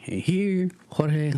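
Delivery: hammed-up stage announcer introducing the crew. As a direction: call it out like an emcee. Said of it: "And then he goes".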